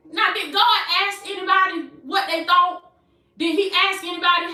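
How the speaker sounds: high-pitched, emphatic preacher exclamation; impassioned, lifted preaching voice; fired-up preaching. Real, not acted. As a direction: exclaim it to the congregation. Preaches rhetorical questions.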